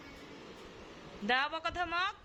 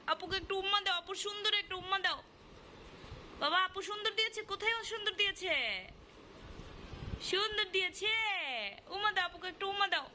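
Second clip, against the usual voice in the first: put-on baby talk; 5 semitones higher than usual. Mother coaxing baby to kiss.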